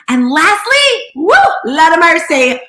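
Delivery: high, loud preacher-style build-up; excited hype. Real, not acted. Host firing up the Clubhouse room, loud excited whoop. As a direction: whoop it up before the big point.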